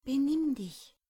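high, loud telling-off; sharp scolding. A narrator's reading. Rosemarie elbows Paule and tells him off, sharply.

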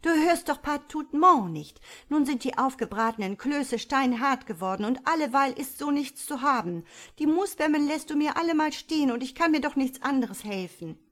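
high, loud motherly scolding; scheltend. A narrator's reading. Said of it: "schalt sie". (hoch und laut schimpfende Mutter)

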